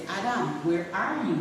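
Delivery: "where are you?" with "are" said fully; plain English "Adam, where are you?"; standard English. Shown as a demonstration. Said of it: "listen to English now".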